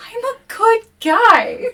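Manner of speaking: very high, loud, slow whine; mock plea. Player as William pleading innocence, high loud whine.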